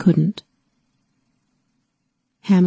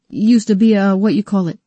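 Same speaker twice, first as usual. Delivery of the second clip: hoarse whisper; 3 semitones higher, 5 dB louder than usual. A narrator's reading. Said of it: "he said in a hoarse whisper".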